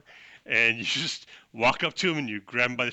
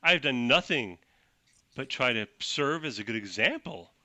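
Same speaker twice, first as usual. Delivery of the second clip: self-righteous speech. Acted. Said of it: "This is Edgelord talking".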